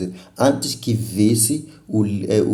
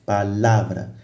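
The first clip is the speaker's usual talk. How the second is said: "palavra" with the energy on LA; teacher's demo of pa-LA-vra; stress on the middle syllable; slower than usual. Shown as a demonstration. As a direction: put the force on LA in "palavra". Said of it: "é aí onde tu gastas mais energia".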